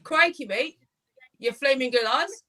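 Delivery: hammed-up Australian stock phrases; Australian accent. Shown as a demonstration. Asked by the host for an accent, mock Australian accent. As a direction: play a cliché Australian, phrase by phrase. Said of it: "Can you do an Australian accent?".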